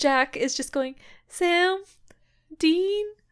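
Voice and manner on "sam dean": high-pitched, anxious, worried calling out. Retelling a scene, acting out Jack calling two names, imitating Jack's worried call. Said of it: "you can hear the worry in his voice".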